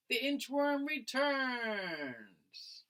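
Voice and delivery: slow, drawn-out movie-trailer title; dramatic title. Acted. Teacher reading the last title to the class, dramatic trailer voice. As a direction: announce it like a blockbuster sequel.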